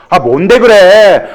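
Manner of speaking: lightly voiced pushy wife asking what it is; impatient wife. Wife in the joke presses her husband, lightly voiced and impatient.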